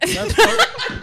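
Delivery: Rosie Perez voice. Shown as a demonstration. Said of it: "that's Rosie Perez".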